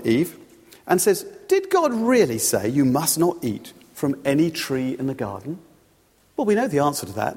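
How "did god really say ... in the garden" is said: lightly acted insinuation; sowing doubt. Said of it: "how he tries to sow doubt".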